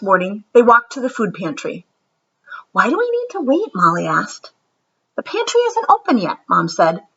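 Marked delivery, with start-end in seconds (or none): 2.7-3.7 put-on impatient child. Impatient child asks mom. 5.2-6.4 patient mom. Acted.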